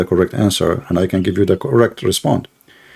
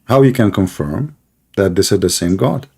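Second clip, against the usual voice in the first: to someone hard of hearing. Real, not acted. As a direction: spell it out for a bad line. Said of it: "Excuse me?".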